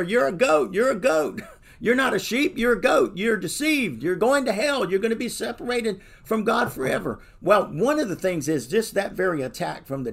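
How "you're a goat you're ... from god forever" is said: high, loud taunting devil voice, mocking; preacher playing the accusing devil; screaming devil. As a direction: jeer like the devil in someone's ear.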